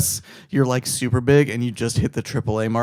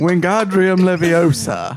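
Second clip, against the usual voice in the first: put-on British accent; 3 semitones higher, slower than usual. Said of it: "you know your Harry Potter stuff".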